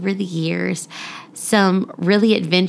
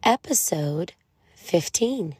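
put-on children's story reading. Podcast mom reading a rhyming picture book to children, lilting storytelling. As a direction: read it like a bedtime rhyme for little ones.

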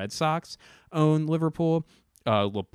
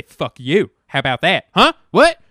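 mock angry comeback; 6 semitones higher, 13 dB louder than usual.

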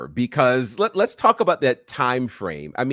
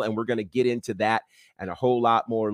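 normal talking voice

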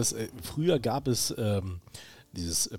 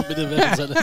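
machine announcement; 6 semitones higher, 8 dB louder than usual. Pretend. Imitating a coin machine.

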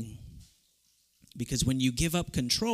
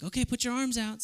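mother's voice; 8 semitones higher than usual. Retold or imitated. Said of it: "And she's like".

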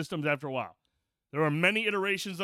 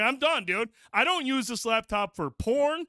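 higher, exasperated rant; frustrated rant; 6 semitones higher than usual. Retold or imitated. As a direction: vent like you're fed up. Retelling own frustrated outburst.

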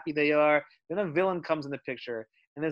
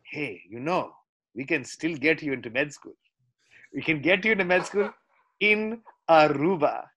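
put-on light Indian accent as a parent; a hint of an Indian parent's accent. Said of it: "I'll do the Indian accent".

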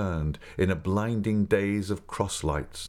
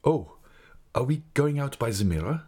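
higher-pitched questioning voice for Raoul; anxious young Raoul; 6 semitones higher than usual. A narrator's reading. Raoul asks the Persian about the mirror, higher and wondering. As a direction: ask in a raised, wondering voice.

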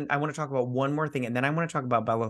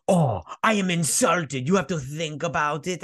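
lightly hammed-up Italian, vaguely Eastern European; mock Italian accent. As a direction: play insulted in a bad Italian accent. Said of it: "how you're Italian accent sounds like".

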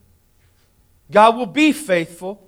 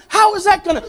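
higher, anxious half-question; mock panic; 11 semitones higher, faster than usual. Preacher mimics a worried parent panicking over money. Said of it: "you start freaking out".

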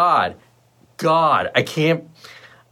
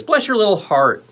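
raised, high-pitched blessing; higher-pitched blessing; 7 semitones higher than usual. Shown as a demonstration. Host bestows mock blessing on a viewer, high lilt. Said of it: "we'll do it like this".

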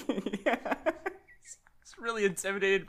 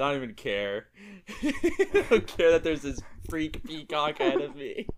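nonchalant; 7 semitones lower than usual. Retold or imitated. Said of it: "now he's nonchalant".

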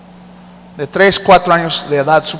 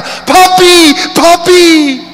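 put-on high, loud little girl's joyful call; overjoyed child shouting for her father; child calling papi; 12 semitones higher, 5 dB louder, much slower than usual. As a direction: call out like a small girl running to her dad. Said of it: "mientras que corre le grita".

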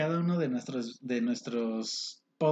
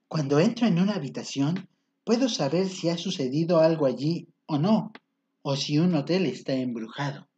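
quoting Demi. Retold or imitated. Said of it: "Demi Lovato dice".

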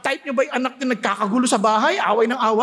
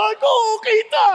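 mock rich man; 7 semitones higher, faster than usual. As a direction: play the spoiled rich man, hammed up. Rich man getting out of car.

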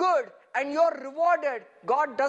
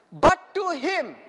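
slow, loud, deliberate verse reading; 2 semitones higher, 5 dB louder, slower than usual. Shown as a demonstration. Preacher leads congregation through the verse, slow and emphatic. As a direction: read it out word by word, strongly. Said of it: "I want you to read it very slowly".

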